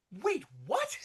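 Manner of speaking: high, incredulous retold reaction; stunned double take. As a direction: replay your jaw-drop at the reveal. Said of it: "and I'm like".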